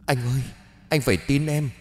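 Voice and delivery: high, tearful begging wife; desperate pleading. Acted. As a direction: plead for your life, voice climbing. Wife begs furious husband.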